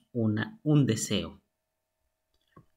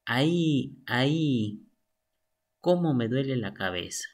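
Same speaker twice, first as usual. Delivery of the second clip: mock pain. Shown as a demonstration.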